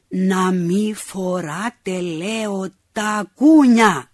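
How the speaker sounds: slow, loud, spelling it out to a deaf woman. Acted. Man repeats slowly and loudly to deaf old neighbour. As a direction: hammer each word out slowly. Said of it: "Υψώνει τη φωνή του".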